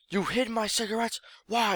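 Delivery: mock outraged mom asking why; shocked mom.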